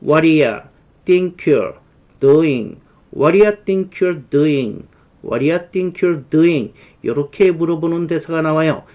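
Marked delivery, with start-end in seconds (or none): 0.0-6.7 "what do you" as "wha-ri-ya", "think you're" linked as "thinkyer"; linked native pronunciation. Shown as a demonstration. Teacher drills the film line for learners, linked native pronunciation. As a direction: model "What do you think you're doing" with the words run together. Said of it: "원어민들이 빨리 발음하면".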